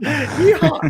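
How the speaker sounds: very high cowboy whoop; yeehaw. Pretend. Echoing cowboy call, laughing.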